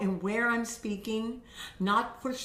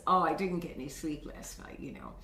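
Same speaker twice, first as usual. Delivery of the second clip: low, weary complaint fading softer; tired; 5 semitones lower, 3 dB quieter, faster than usual. Acted. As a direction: let the voice droop from lack of sleep. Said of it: "the tiredness".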